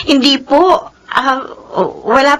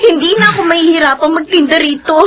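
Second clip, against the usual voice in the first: tearful joy; 5 semitones higher than usual. Acted. Vendor overjoyed at big payment.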